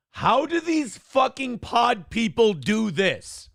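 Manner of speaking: slow, baffled and exasperated; exasperated disbelief. Real, not acted. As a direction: drag it out in disbelief. Baffled by the clip.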